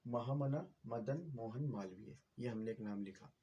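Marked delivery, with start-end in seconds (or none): 0.1-2.2 slow full name. Shown as a demonstration. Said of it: "तो".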